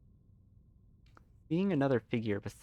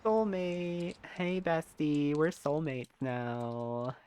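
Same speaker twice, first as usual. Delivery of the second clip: playful high voice; 5 semitones higher than usual. Acted. Playful bestie voice.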